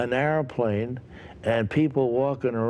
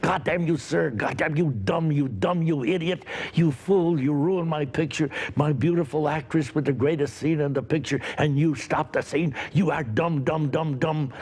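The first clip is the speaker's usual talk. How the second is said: imitating the director's raised, furious rant; mock yell of an angry director, pitched higher; retold angry yell; 3 semitones higher than usual. Director screaming at an actor on set, imitated in a mild mock yell. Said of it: "came right up to my face yelling".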